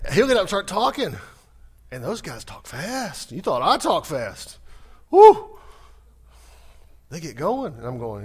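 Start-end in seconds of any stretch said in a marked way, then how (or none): 5.1-5.6 very high, loud whooping cry. Real, not acted. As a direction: let out a big excited woo. Mocking the fast-talking preachers.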